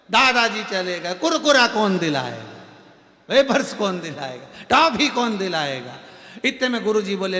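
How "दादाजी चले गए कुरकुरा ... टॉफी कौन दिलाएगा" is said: mock crying grandson. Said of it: "पोता रोते रोते बोला".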